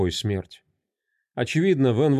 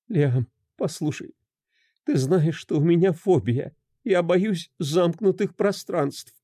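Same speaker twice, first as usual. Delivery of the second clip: higher, shaky pleading; trembling plea; 6 semitones higher than usual. Acted. A wife begs her husband to understand her phobia, trembling. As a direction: plead with him, voice shaking. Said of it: "Её голос дрожал сильнее".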